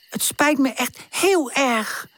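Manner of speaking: sorry, voice wavering; trembling voice. Acted. Woezel apologising to tante, voice trembling. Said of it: "Zijn stem trilt".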